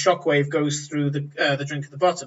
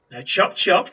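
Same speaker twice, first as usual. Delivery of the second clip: brusque orders; 5 dB louder than usual. Acted. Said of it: "He goes".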